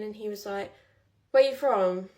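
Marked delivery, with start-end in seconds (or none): 1.3-2.1 a hint of a pushy drunk, raised voice; louder drunk question. Retelling the drunk man on the tube, raised and pushy. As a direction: call it across the carriage, mildly loud.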